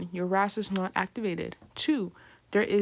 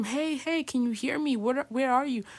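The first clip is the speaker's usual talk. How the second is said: mock scream; 4 semitones higher than usual. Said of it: "you scream".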